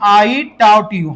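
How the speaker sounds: very slow, each word spaced out; slow model sentence. Shown as a demonstration. Teacher to his class, repeating the answer very slowly. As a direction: spell it out slowly for students to repeat. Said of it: "फिर से बोलो".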